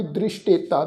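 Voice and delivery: ਦ੍ਰਿਸ਼ਟੇਤਾ with a dotted ਸ਼, said as "drishteta" with a clear sh; correct gurbani pronunciation. Shown as a demonstration. Teacher shows the class ਦ੍ਰਿਸ਼ਟੇਤਾ with the sh sound. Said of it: "ਸੱਸੇ ਦੇ ਪੈਰ ਵਿੱਚ ਬਿੰਦੀ ਲਗਾ ਕੇ ਪਾਠ ਉਚਾਰਨ".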